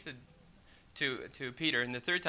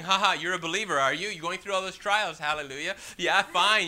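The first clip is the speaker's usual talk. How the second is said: mocking world; 4 dB louder than usual. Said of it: "the world is laughing".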